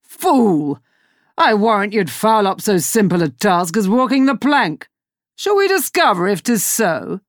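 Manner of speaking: a sneering captain voice; mock the fool with lordly scorn; scornful pirate captain. Hook berating the clumsy servant, scornful captain voice.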